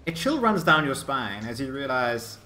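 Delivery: measured, suspenseful storytelling; game master narration. Acted. Game master warns players of an early arrival, suspenseful narration. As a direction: build dread as the scene is set.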